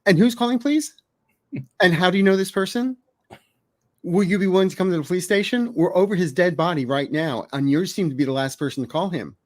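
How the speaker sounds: mock-serious official questioning a caller; real serious. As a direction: play it dead serious, like police on the phone. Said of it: "real serious, like".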